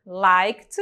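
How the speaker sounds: "liked" ending in a T sound; teacher showing the T ending of "liked"; final T sound. Shown as a demonstration. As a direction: say "liked" as "likt". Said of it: "Aquele sonzinho diferente que eu falei".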